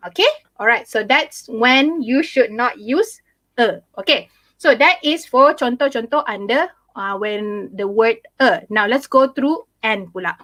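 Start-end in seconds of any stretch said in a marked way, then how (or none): none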